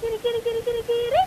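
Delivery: high, soft kitty call; calling a cat. Real, not acted. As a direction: coax the cat over.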